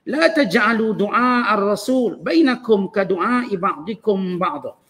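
slow, measured recitation of Arabic scripture; Quran recitation. Real, not acted. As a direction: recite the verse slowly, drawing out the vowels.

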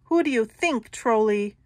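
big goat, taunting. Acted.

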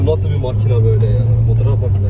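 amazed. Real, not acted. Amazed at passing car.

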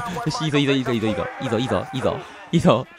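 low, soft muttering to oneself; quiet, focused gamer murmur; murmured self-encouragement. Real, not acted. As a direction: mutter it low under your breath. Murmuring to himself during play.

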